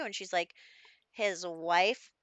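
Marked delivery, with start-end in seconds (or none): 1.1-2.1 louder, stunned retold outburst; shocked disbelief. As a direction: ask it as if the news just hit. Retold shock at husband news.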